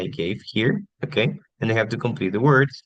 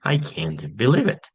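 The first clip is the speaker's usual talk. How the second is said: indifference; 2 semitones higher than usual. Shown as a demonstration. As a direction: demonstrate not caring, with a pause after "Oh". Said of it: "indifference, like".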